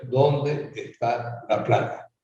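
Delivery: slow, weighted question; slogan pitch. Retold or imitated. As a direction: spell out the slogan slowly, word by word. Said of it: "La pregunta debería ser". (eslogan lento y marcado)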